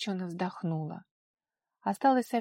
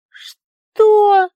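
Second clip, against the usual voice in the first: much higher, loud cry of disbelief; shocked shriek; 14 semitones higher, 18 dB louder than usual. A narrator's reading. Daughter hearing her punishment, shocked high shriek. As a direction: shriek in outrage.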